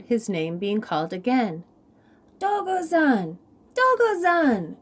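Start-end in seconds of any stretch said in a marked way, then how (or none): 2.4-4.8 high, small calling voice; sweet little voice. Acted. Chameleon calling to Rabbit in a high sweet voice. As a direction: call out sweetly, high and light. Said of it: "Recognizing the sweet little voice".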